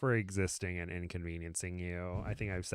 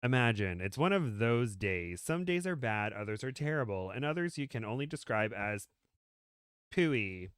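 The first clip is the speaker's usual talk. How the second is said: measured, lilting read-aloud; story narration; 2 semitones higher, 3 dB louder than usual. Acted. Reading a comic story to a friend, storyteller delivery. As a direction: read it out with swooping storyteller emphasis.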